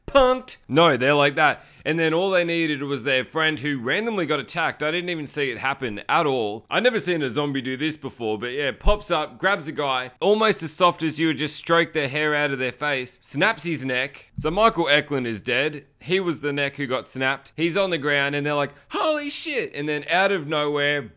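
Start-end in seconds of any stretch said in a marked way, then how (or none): 0.1-0.6 mock-gleeful prank reveal with a laugh; gloating prankster. Imitates pranksters crowing at victims. 18.9-19.7 high-pitched stunned exclamation; hammed-up astonishment, pitched way up; mock shock. Characters shocked by a death.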